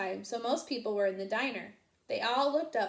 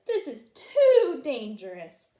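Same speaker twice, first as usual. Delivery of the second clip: nervous sheep; 3 semitones higher, 10 dB louder, slower than usual. A narrator's reading. Sheep frightened.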